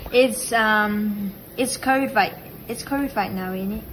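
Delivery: casual put-on British, ISN'T IT squashed to "innit"; chatty mock British accent. Shown as a demonstration. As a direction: play at British small talk. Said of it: "Or then you say".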